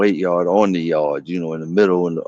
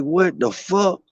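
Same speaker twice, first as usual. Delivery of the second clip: much higher, slow stunned question; disbelief; 11 semitones higher, slower than usual. Retold or imitated. Teller reacting to the inmate's strange name, stunned. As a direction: drag it out in shock.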